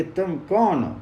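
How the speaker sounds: put-on a boy's loud hail across the woods; mild call into the distance. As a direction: call out to the unseen voice in the forest. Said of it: "तब जोर से बोले कि".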